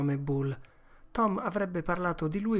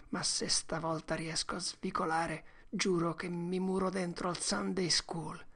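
put-on soft, tearful boy confessing; half-sob the regrets; remorseful lament; 4 semitones higher, 4 dB quieter than usual. Tom laments his sins, soft and tearful.

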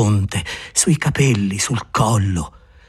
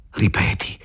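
whispered demand; 4 dB quieter than usual. Acted. Urgent soft demand.

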